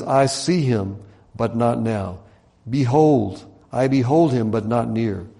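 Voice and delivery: deliberate prophetic recital; scripture reading. Acted. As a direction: declaim it in short, weighted phrases. Reads scripture aloud.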